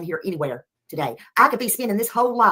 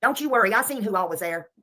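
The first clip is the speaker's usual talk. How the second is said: riled up; 3 dB louder than usual. Real, not acted. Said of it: "That got her a little riled up again".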